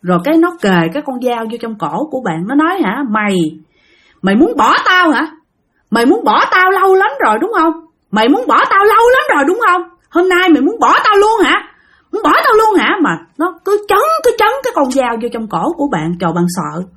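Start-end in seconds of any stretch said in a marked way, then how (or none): 2.8-5.3 menacing threat. Retold or imitated. Boyfriend threatens with knife. 5.9-7.7 menacing threat. Retold or imitated. Boyfriend threatens with knife. 8.1-9.8 menacing threat. Retold or imitated. Boyfriend threatens with knife. 10.1-13.0 higher, raised accusing voice, retold; menacing threat. Boyfriend with a knife at her throat, raised menacing accusation.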